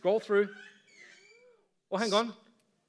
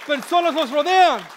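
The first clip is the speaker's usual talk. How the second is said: loud, slow, emphatic proclamation; fervent preaching; 3 semitones higher, 5 dB louder, slower than usual. Real, not acted. Preacher urging the church to notice people, loud and fervent. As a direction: proclaim it slowly at full voice.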